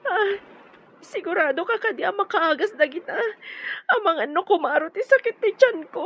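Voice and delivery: tearful, hurried plea through sobs; crying in pain. Acted. Cherry pleading with the maid through tears of pain. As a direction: weep fast through the stomach ache.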